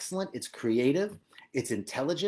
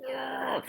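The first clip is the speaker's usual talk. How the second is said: disgusted groan; 10 semitones higher, 6 dB quieter than usual. Retold or imitated. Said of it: "nails on a chalkboard".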